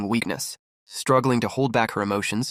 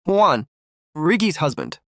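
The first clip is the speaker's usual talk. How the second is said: confused; 5 semitones higher, slower than usual. A narrator's reading. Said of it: "repeated the name in confusion".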